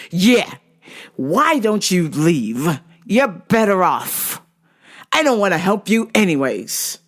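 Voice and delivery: slow, punched-out mock scorn; mock dismissive. Rude practitioner dismissing clients, mock scornful. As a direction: imitate him sending them packing.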